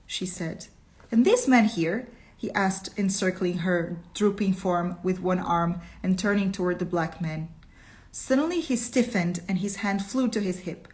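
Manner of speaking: reading a story aloud to the class; story narration. A narrator's reading. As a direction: tell the tale with steady narrator's pace.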